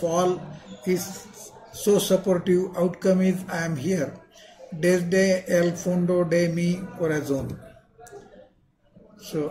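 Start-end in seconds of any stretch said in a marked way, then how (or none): 4.7-7.6 Indian-accented Spanish. Real, not acted. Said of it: "apologies for my Spanish pronunciation".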